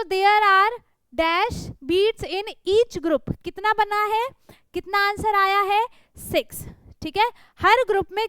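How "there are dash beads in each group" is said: reading slowly. Shown as a demonstration. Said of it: "reading the fill-in sentence slowly".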